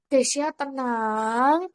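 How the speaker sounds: drawn-out, very slow soothing; calming self-talk. Retold or imitated. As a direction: talk yourself down, stretching the words slowly. (menenangkan diri dengan pelan)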